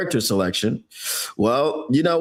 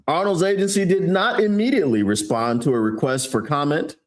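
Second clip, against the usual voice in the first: newscaster voice. Acted. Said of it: "newscaster voice".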